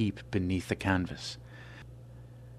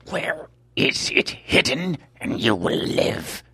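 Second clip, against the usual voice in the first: higher, louder, slow cold demand; menacing demand; 3 semitones higher, 4 dB louder, slower than usual. Acted. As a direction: offer his life as a bargain. Albino demands.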